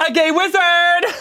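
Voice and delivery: high, drawn-out proclamation; triumphant reveal. Acted. Boyfriend finally confesses his secret to girlfriend, triumphant reveal. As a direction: announce it grandly, stretching it upward.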